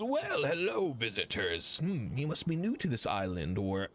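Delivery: lightly voiced old dragonborn with a swooping greeting; older dragonborn. Older dragonborn greets visitors to the museum, lightly voiced. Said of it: "an older looking brass dragonborn".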